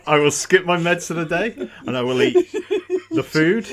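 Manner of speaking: loud, high, through laughter; crowing over the laughs; laughing boast. Real, not acted. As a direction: boast big while cracking up.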